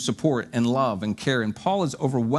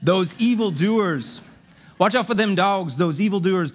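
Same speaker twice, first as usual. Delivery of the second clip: dramatic warning; 5 semitones higher, 3 dB louder than usual. Acted. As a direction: warn the church like a fiery prophet.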